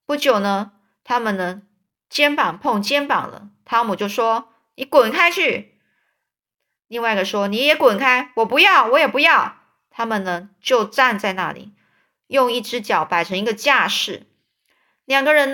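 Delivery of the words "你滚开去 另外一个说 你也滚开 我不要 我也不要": higher and louder get-lost; two boys yelling at each other; kids shouting. Acted. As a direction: shove back with words. Shoving match, shouting.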